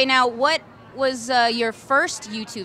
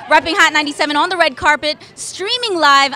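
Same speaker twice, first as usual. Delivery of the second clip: loud, bright red carpet hype; excited host opener; 2 semitones higher, 6 dB louder than usual. Acted. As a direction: open the show like a live host. Host's live red carpet opener.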